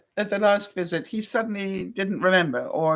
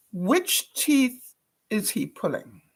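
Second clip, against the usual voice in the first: slow weary mimic; slower than usual. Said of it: "he said for the sixth time".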